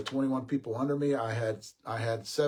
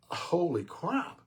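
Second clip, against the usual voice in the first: high, drawn-out mock astonishment; slow, high-pitched exclamation of shock; stunned retold reaction; 7 semitones higher, much slower than usual. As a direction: stretch it out in amazed disbelief. Retold shock at test result.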